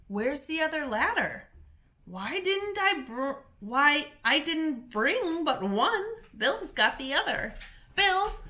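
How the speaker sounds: high, hurried crowd of little animals; excited animal voices. A narrator's reading. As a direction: call out like busy workmen on a roof. Animals shouting at the chimney.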